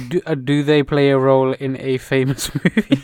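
Akinator. Acted. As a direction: keep up the quiz act, amused. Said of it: "I'm doing the Akhenaten".

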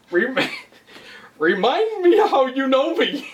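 high, slow, smug mock line; a mocking self-important ask; self-centered mock. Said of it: "that is so self-centered".

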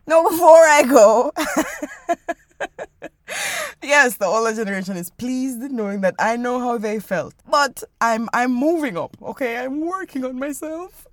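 cracking tearful heartbreak, hammed-up; mock sob through the words; crying voice. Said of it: "My crying voice is so funny".

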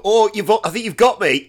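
mock humble. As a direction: fake modest, loud and high. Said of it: "doing that bell end thing that strong people do".

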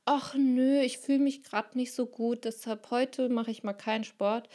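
lightly voiced sluggish excuse-maker; lazybones. Lazy inner voice skipping morning sport, lightly whiny. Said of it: "ein Fauli".

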